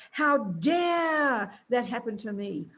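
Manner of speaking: slow, indignant "how dare" voice; voice of anger. Retold or imitated. Speaking as anger itself, slow indignant complaint. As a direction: give anger's self-pitying voice, drawn out slowly. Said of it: "That's what it's saying".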